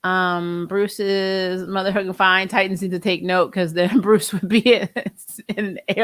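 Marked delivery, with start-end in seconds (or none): none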